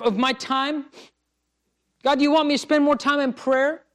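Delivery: sincere seeking prayer, voice lifted; earnest prayer. Retold or imitated. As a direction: ask each question eagerly, pressing. Earnest surrendering prayer retold.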